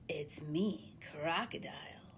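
hushed unvoiced whisper from the water. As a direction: breathe it out like a secret from the dark. Crocodile calls from dark water.

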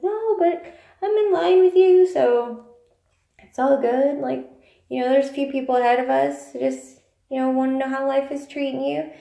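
high, loud chirpy chatter; upbeat explaining. Retold or imitated. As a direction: keep it high and sunny. Cheerfully explaining to a stranger.

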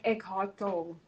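"Tolle" as one syllable, like toll; German pronunciation. Shown as a demonstration. Host showing co-host the German pronunciation, "Tolle" said like toll. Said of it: "That's literally the pronunciation".

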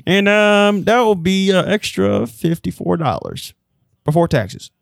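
lightly voiced snippy clerk; a hint of a curt postal worker; clipped snippy cashier. Clerk in improvised sketch.

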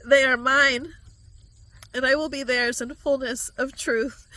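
prophecy swelling to full voice; rising proclamation. Acted. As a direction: build to a ringing declaration of love. Prophecy rises to a climax.

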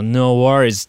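a relaxed Aussie "No worries" with a falling tune; Australian accent. Retold or imitated. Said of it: "まあなんかあっても、「まあいいじゃん」". (気楽なオーストラリア訛り)

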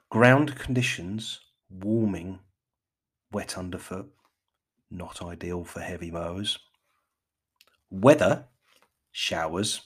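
measured BBC forecast, headings punched; BBC accent. Pretend. Podcaster gives ground conditions for mowing, mock BBC accent. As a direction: read out conditions as a BBC announcer. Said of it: "put on my best B B C".

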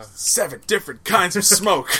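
laughing movie-line voice; quoting a movie voice. Retold or imitated. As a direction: quote it in a character voice. Movie quote in funny voice.

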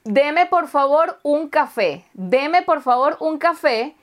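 slow, sweetly polite ordering; overly polite request. Retold or imitated. Customer ordering coffee too politely in a Finnish café. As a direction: ask for the coffee with exaggerated courtesy. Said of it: "pero no voy a decir".

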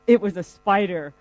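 mildly sheepish, retold confession; sheepish admission. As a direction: own up reluctantly, as if embarrassed. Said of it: "looks sheepish and says".

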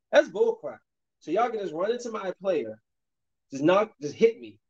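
indignant outburst, pitch up; getting mad. Real, not acted. Gamer protesting a missed foul call, indignant outburst. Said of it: "Now I'm getting mad".

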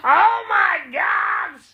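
drawn-out disbelieving gasp; gasping surprise. Retold or imitated. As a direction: viewer stunned by the last scene. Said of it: "which is like".

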